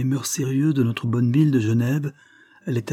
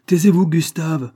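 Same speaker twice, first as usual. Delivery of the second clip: sharp command; 7 semitones higher, 6 dB louder than usual. A narrator's reading. Tutor stepping between boy and colonel, commanding. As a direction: cut the boy off forcefully.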